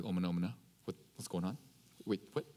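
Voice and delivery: hushed Korean gasp of disbelief; Korean bystanders. Retold or imitated. Fellow servants see the arrest, hushed shock. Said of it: "if they're Korean, they'd be like".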